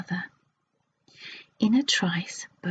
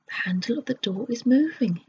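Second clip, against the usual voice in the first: yelled; 3 semitones higher than usual. Acted. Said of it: "yelled Moonface".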